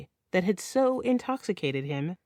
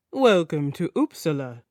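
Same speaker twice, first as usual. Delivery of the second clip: put-on musical Nordic accent; 3 semitones lower, 3 dB louder than usual. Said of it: "with his musical Nordic accent".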